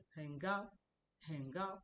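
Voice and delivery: "很高" without the full dip on 很; half third tone. Shown as a demonstration. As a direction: let 很 in "很高" pass without completing down-up. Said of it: "looks like it's the second one".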